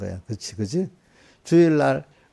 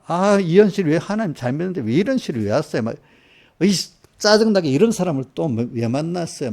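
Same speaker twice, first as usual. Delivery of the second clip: higher-pitched grumbling at God; mock complaint; 4 semitones higher than usual. Believer asks God why this happened, mock exasperated complaint. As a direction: play an exasperated believer protesting.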